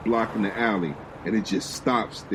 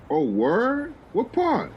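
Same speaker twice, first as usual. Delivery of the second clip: excited Uncle; 13 semitones higher, slower than usual. Acted. Uncle excited about Brooklyn.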